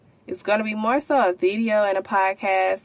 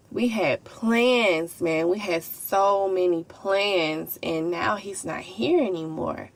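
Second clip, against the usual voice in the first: slow and emotional. Real, not acted. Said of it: "I had got a little emotional".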